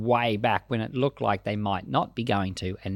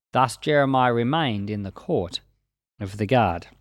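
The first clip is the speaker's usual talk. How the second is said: steady, measured Bible reading; scripture reading. Acted. Teacher reading Jeremiah to the class, measured reading voice. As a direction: read the chapter aloud like a lesson text.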